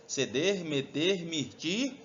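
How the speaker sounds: evenly spaced endings, each lifted; measured teaching chant; recite-along mnemonic. Shown as a demonstration. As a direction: lead the class in reciting the list. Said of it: "Bota junto".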